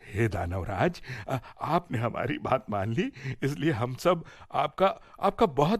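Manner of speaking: the fairies gush with thanks to the mighty demon; eager fairies. Acted. Fairies thank and offer gifts. (उत्सुक परियों की हल्की ऊँची आवाज़)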